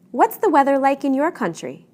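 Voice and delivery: information question, rising then falling on "country"; rising-falling intonation. Shown as a demonstration. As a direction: let "country" fall to close the question. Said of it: "ask an information question".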